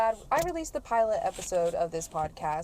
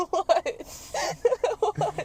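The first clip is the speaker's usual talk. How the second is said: high giggly what between laughs; laughing what; 12 semitones higher, 5 dB louder than usual. Real, not acted. Laughing at partner's reaction.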